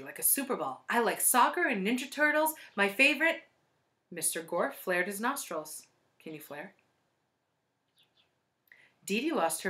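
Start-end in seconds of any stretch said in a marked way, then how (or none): 0.9-3.4 put-on small, energetic child voice; high little voice full of bounce; Dee Dee. A narrator's reading. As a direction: pipe up like an eager schoolgirl. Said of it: "Her voice was small but full of energy".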